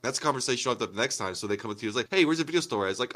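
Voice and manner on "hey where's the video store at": eager friend asking. Retold or imitated. Friend asking, acted quote.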